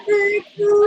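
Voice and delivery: mock rival voice. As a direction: say Bantu as the mocked rival would. Same word in mock voice.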